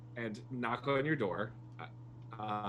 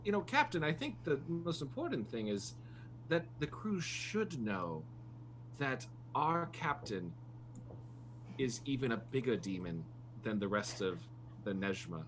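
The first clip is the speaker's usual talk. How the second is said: lightly voiced crew member; 5 dB quieter than usual. Player voices Reader addressing captain.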